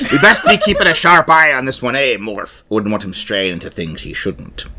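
lightly voiced pirate, laughing in; a hint of a pirate. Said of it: "I was being piratical".

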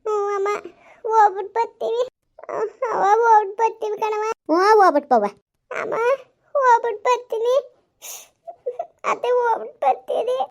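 high, loud calling goodbyes; young woman's farewell. Acted. Daughter-in-law calling farewell to the elders, high and loud. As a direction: call out the goodbyes high and bright.

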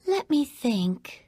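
gracious princess greeting the hero, sweet and even; lightly voiced storybook princess; Princess Jasmine voice. Jasmine greeting Aladdin, a gentle princess voice.

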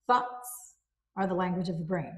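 "thoughts" whispered, then "are the language of the brain" spoken plainly; a whisper on "thoughts" to recall the phrase; whispered key word. Shown as a demonstration. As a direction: breathe the word "thoughts" as a reminder. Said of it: "And so remember".

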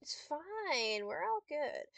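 soft, wavering self-reassurance; softly insisting all is well; forced calm. Real, not acted. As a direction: talk yourself down quietly. Calming self after outburst.

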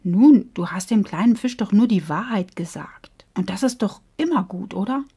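hushed, reassuring; gentle whale. Acted. Sammy the whale comforts Bo, hushed and reassuring. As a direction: soothe a guilty friend.

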